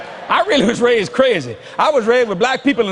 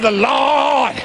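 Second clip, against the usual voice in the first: shouted church line; preacher shout; 3 semitones higher than usual. Shown as a demonstration. Preacher shouting to the congregation. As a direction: call it out from the pulpit.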